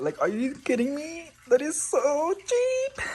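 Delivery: high disbelieving squeal, slow on cheap; amazed squeal. Real, not acted. Reacting to a cheap plant price, high amazed squeal.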